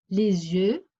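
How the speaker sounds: "les yeux" linked with a z sound; liaison marked. Shown as a demonstration. Teacher reading a sentence to pupils, "les yeux" with a clear z liaison. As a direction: run "les yeux" together as lé-z-yeux. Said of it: "on marque la liaison".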